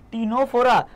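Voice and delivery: "টিনোফোরা" with no K or S sound before the T; silent C. Shown as a demonstration. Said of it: "কি উচ্চারণ হবে?".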